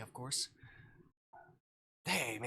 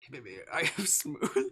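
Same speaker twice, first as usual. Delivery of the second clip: tag; 3 semitones higher, 6 dB louder than usual. Pretend. Joking mock pick-up line, laughing.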